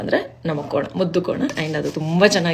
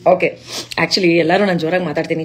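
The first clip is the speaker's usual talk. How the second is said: speaking up; 3 dB louder than usual. Real, not acted. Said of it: "ಸ್ವಲ್ಪ ಜೋರಾಗಿ ಮಾತಾಡಿ".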